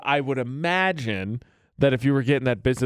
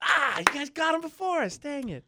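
mock disappointment; 10 semitones higher, 4 dB quieter than usual. Mock losing to the police.

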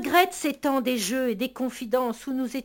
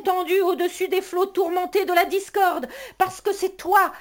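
higher, ringing declaration; exalted; 5 semitones higher than usual. Acted. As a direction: build it to a peak. Exalted climax.

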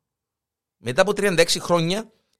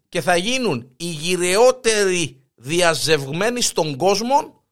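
slow emphatic headline; slower than usual. Shown as a demonstration. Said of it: "repeats headline slowly".

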